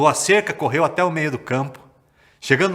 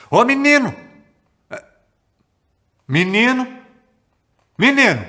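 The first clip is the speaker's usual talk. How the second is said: higher, louder calling across the field; 10 semitones higher, 9 dB louder than usual. Acted. Parents calling their lost son home, loud long call. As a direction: shout for the missing boy.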